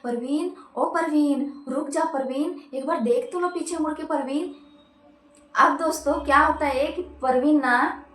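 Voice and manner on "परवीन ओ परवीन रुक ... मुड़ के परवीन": sweet luring call. Acted. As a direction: tempt him to look back, honey-sweet. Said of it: "इतनी मधुर आवाज़ से आवाज़ लगा रही है".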